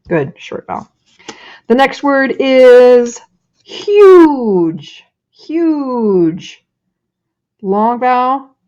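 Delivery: cheerful teacher reading word after word to the class; classroom demo voice. Shown as a demonstration. Teacher demonstrating a word sort to students. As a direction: model the lesson as if kids were listening. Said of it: "is like this".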